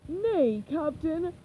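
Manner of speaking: loud pirate shout; pirate crying out. Acted. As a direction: call it out as a deckhand. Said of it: "one of them cried".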